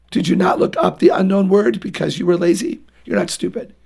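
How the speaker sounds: loud, firm dad correcting his son; a father gently pressing his son for the truth; firm parent. Retold or imitated. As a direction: set him straight, firmly but kindly. Parent voiced correcting child.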